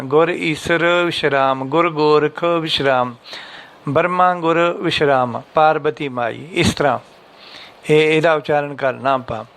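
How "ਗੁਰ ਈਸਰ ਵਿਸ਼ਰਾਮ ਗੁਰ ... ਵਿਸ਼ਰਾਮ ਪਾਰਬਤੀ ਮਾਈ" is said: a pause after ਗੁਰ ਈਸਰ, ਗੁਰ ਗੋਰਖ and ਬਰਮਾ ਗੁਰ; pauses after each phrase. Shown as a demonstration. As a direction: model the correct breaks, line by line.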